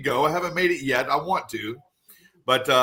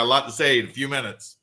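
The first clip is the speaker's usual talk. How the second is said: rapid-fire auctioneer patter; fast auctioneer talk; faster than usual. Shown as a demonstration. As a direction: rattle it off like an auctioneer. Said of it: "talk to you like an auctioneer".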